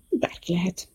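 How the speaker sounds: elgondolkodva, suttogva; halkan, magának mondva; musing whisper. Acted. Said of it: "tűnődött Lexi". (tűnődő suttogás)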